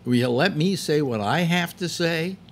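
loud, high, exasperated shout at Phil; fed-up host shouting at an interrupting co-host; retold yell. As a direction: yell it to finally get a word in. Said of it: "I yelled at him".

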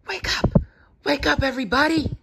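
urgent, forceful stage whisper; loud whisper. A narrator's reading. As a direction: whisper hard to rouse the sleepers. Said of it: "she whispered loudly".

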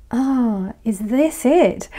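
slow, deflated "is this it", falling at the end; disappointed kid. Retold or imitated. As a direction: let the air out of it, a kid let down by a pot of dal. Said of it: "he was so disappointed".

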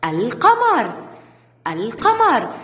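القمر with a clear L, al-qamar; moon lam demo. Shown as a demonstration. Teacher models the moon lam to children, clear. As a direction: sound the lam in القمر fully. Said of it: "ندخل عليها ال التعريف".

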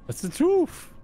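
laughing. Real, not acted. Laughing reply.

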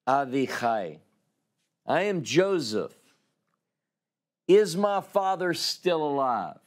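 lightly voiced Joseph, half-sobbing the questions; mildly hammed-up tearful outburst to his brothers; overcome with emotion. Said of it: "I think that came out like this".

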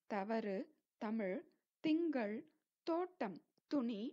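தவறு, தமிழ், திங்கள் with unaspirated dental t; light t. Shown as a demonstration. Teacher giving examples, தவறு and துணி with light t. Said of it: "லேசாக த உச்சரிக்கிறோம்".

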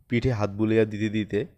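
ordinary delivery, nothing marked

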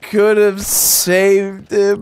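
overacted sorrow over a dead buddy; hammed-up grief. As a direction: drag it out like a tragic hero. Mourning a dead ally.

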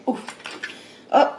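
ordinary delivery

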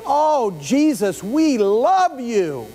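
slow, drawn-out pious praise; mock devotion. People telling Jesus they love him, in slow showy piety. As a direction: stretch it out like empty worship. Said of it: "they would say".

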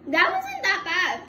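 high, slow laughing words. Real, not acted. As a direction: laugh through the sour taste. Reacting to sour candy.

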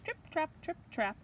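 high, light trip-trap; tiny staccato goat footsteps; little hoof steps. Acted. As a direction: say it like dainty hooves tapping. Small goat crosses the bridge.

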